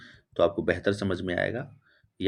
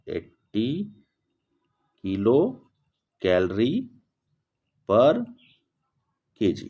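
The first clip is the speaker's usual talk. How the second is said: one word at a time, long gaps; slow dictation; slower than usual. Real, not acted. Teacher writing out latent heat of ice, slow dictation. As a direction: spell out the unit word by word.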